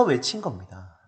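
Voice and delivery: normal talking voice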